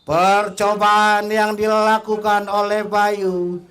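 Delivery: high, loud, urgent commentary; excited call. Real, not acted. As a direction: build excitement on the counterattack. Counterattack, shot on goal.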